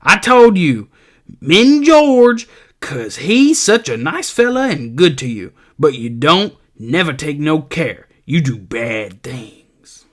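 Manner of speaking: shrill nagging aunt; old aunt lecturing Lenny in his head; scolding Aunt Clara. Acted. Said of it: "this is Aunt Clara, and she says to him".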